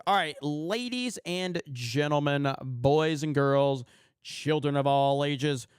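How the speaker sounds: booming ring announcer intro; grand entrance announcement. Acted. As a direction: build it up like a boxing announcer. Ring announcer intro for beard segment.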